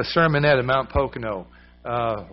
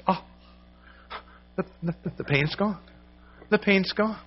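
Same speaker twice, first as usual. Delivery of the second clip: rising, higher voice in awe of the healing; amazed relief; 6 semitones higher than usual. Retold or imitated. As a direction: let the wonder lift the voice. Woman amazed pain gone.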